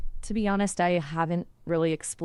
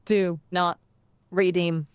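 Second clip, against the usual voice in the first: lightly robotic, word-by-word delivery; slower than usual. Shown as a demonstration. Assistant attempting a requested accent, slightly robotic voice. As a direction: separate the words with pauses, a hint of robot. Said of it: "That was a robot voice!".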